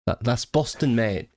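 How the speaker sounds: uncertain English regional accent put on; attempted regional accent. Shown as a demonstration. Streamer fumbling at local accents, attempted regional accent. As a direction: have a tentative go at a regional accent. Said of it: "I don't know what, what accent that was".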